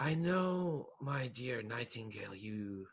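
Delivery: a hint of a smug schemer talking down to his pet; scheming villain to his bird. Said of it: "he'll just say, like".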